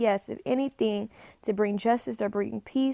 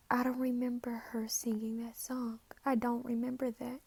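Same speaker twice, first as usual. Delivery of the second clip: whispered, breath only; hushed disbelief; 10 dB quieter than usual. Real, not acted. Psychic stunned by a channeled song, whispering. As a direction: whisper it in quiet shock.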